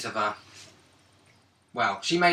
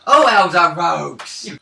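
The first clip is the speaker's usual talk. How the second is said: exasperated; 5 dB louder, slower than usual. Real, not acted. Mock exasperated outburst.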